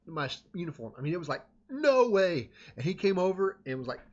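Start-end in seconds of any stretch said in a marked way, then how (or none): 1.7-2.5 a sudden, higher, louder shout of disbelief; furious director's shout; angry outburst. Retold or imitated. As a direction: bark it at the kid caught red-handed. Band director sees whistle blower.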